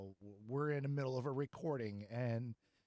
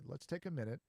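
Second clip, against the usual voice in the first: calm suggestion. Retold or imitated. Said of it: "we say".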